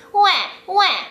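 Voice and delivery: put-on high nasal baby wah; high mock baby cry; baby cry sound. Shown as a demonstration. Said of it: "keep talking in that place".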